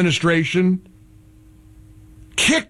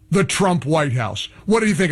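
ordinary talk

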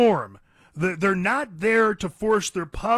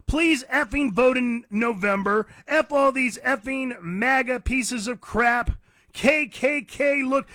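higher mock imitation of a ranting singer; mocking quote of a singer; 5 semitones higher than usual. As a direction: sneer it, pitched up, as her. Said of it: "she's like".

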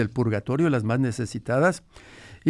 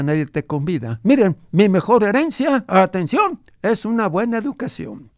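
lightly voiced grandfather, a bit higher; old grandfather; 5 semitones higher, 3 dB louder than usual. Grandfather recalls his ranch for the radio host, lightly voiced old man. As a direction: tell it as the old abuelo remembering his ranch.

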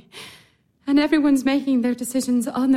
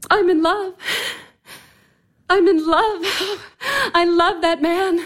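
passionate confession; 4 semitones higher than usual. Acted.

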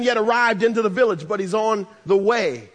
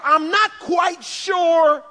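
Martha's hopeful heart; 3 semitones higher than usual. Acted. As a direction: voice a sister clinging to hope. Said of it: "something in her heart that tells her".

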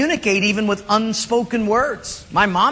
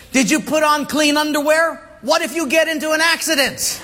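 higher nagging mother, half laughing; mom nagging; 6 semitones higher than usual. Retold or imitated. Mother to son before he goes out, higher nagging voice. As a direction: play the worried mom at the door. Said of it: "She said this".

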